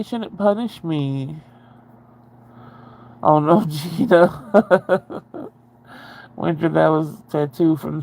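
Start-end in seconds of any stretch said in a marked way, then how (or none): 3.2-5.2 laughing. Real, not acted. Laughing at friend's comment.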